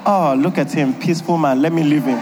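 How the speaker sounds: mock wife voice. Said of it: "Will you say".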